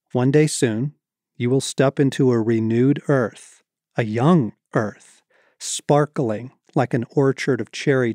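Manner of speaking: measured read-aloud with deliberate pauses; book reading. A narrator's reading. Author reading a chapter to an audience, measured storytelling.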